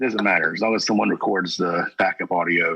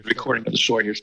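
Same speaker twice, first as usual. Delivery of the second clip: faint echo on the line; words come back as an echo; faster than usual. Real, not acted. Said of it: "Ooh, echo".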